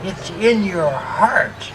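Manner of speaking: slow, drawn-out mock witch voice; hammed-up witch imitation; wicked witch. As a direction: stretch each word like a storybook witch. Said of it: "The wicked witch of the West".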